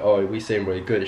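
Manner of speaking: casual laddish greeting at normal volume; greeting the boys. Shown as a demonstration. Man demonstrating slang he uses with his boys, casual greeting. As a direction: say it easily, like greeting a mate. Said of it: "if I go up to one of my boys".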